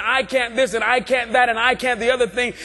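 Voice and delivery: "I" leaned on in each "I can't"; stress on I. Acted. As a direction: put the weight on every "I", mock-humble complaint. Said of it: "emphasis is still on the I".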